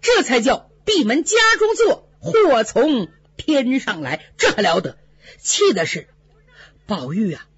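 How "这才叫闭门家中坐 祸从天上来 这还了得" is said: outraged father. Acted. 父亲得知祸事，痛心疾首地怒喊. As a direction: wail it out like a father in disgrace. Father erupts over scandal.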